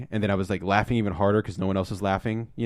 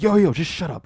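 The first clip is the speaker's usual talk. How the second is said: mock shut-down; 9 semitones higher, 5 dB louder than usual.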